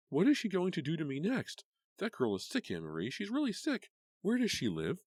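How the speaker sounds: high, loud agitated rant; frantic. A narrator's reading. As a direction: wound up and demanding. Karen frantic about Renee.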